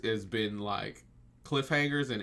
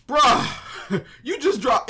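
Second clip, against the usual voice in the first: high, loud burst breaking into a laugh; stunned, laughing outburst; laughing disbelief; 11 semitones higher, 6 dB louder, much slower than usual. Real, not acted. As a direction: crack up in real disbelief. Reacting with laughter to reveal.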